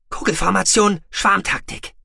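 high, loud crisp commands; commanding orders. Acted. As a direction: snap out orders to the fleet. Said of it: "befahl sie".

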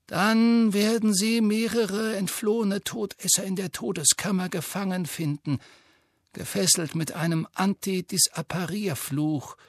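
put-on calm, measured old wizard; Dumbledore voice. A narrator's reading.

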